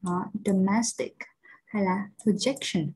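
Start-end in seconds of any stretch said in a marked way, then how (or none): 0.4-1.2 domestic said slowly, MES stressed; domestic, slow with the middle syllable prominent; stress on second syllable. Shown as a demonstration. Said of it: "âm thứ hai". 2.2-2.9 projection with JEC stressed; projection, main beat on the middle syllable; stress on second syllable. Shown as a demonstration. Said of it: "là trọng âm rơi vào âm thứ hai".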